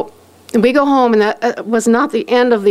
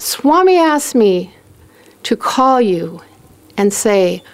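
measured, retold phone message with pauses; Ananta; 3 semitones lower than usual. Friend relaying Swami's invitation home, carefully measured. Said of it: "has to be worded exactly how he said it".

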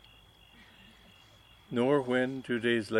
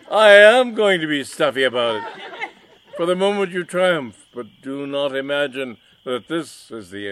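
loud, high, indignant villain; mustache twirling villain; 4 semitones higher, 10 dB louder than usual. Acted. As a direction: rant at the rival, outraged. Villain threatens rival.

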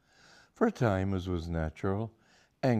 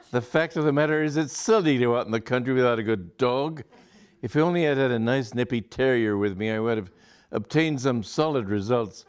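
louder, brisk and chatty; rattling on, still flushed from the chase; fast, eager, hearty chatter; breezy excitement; 3 semitones higher, 4 dB louder than usual. Acted. Aubrey chatters after losing rat.

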